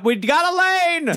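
high, loud laughing cry of triumph; laughing shout. Acted. Mocking the players cheering their cleared path, laughing shout. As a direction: crow it through laughter.

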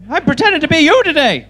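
put-on childlike voice. Childlike Billy quote, high loud.

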